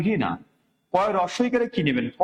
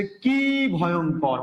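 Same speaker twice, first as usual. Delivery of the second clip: slow exclamation; much slower than usual. Shown as a demonstration. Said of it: "বলছে".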